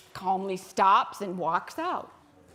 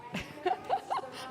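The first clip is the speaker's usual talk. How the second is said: soft laugh; 10 semitones higher, 6 dB quieter than usual. Real, not acted. Watching group have fun.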